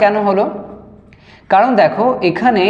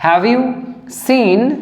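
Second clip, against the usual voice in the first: word-by-word dictation; 3 semitones higher, much slower than usual. Shown as a demonstration.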